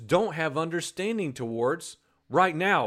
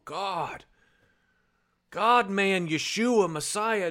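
weeping plea. Pretend. Imagined weeping disciple.

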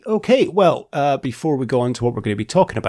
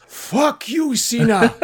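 high yelled insult at a wrestler; furious fan yelling at the wrestler; retold shout; 11 semitones higher, much slower than usual. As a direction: belt it out like an angry fan. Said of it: "he just fucking shouts at the top of his voice".

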